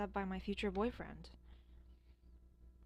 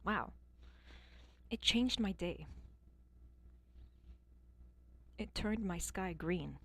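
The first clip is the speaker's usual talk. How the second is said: mock gushing. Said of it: "I can't say something nice about the song".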